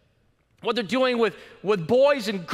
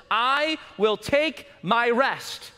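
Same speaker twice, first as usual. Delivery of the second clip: God's declaration; 2 semitones higher, much slower than usual. Acted. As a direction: declare it slowly, full voice. Preacher voicing God's calm words.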